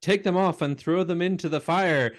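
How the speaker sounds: quoting the mutant leader's order; mock comic book guy. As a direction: proclaim it like a self-important leader.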